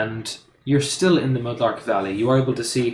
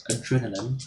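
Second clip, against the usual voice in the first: Irish accent. Shown as a demonstration. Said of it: "not an easy word to say in Irish".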